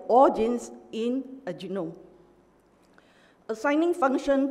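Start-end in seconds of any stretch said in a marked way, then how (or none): 0.1-1.9 "all" given extra weight at the start; stress on "all". Real, not acted. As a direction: repeat it with emphasis on "all". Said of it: "I emphasize here".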